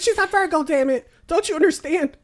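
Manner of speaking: high, loud mock outrage; hammed-up high-pitched shouting; imitated yelling. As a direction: mimic someone yelling in exasperation. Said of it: "It's like yelling like a profession".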